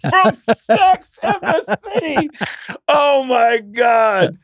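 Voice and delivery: high, very slow mock wail; appalled crowd. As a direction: stretch every word out like a horrified heckler. Voicing the appalled audience.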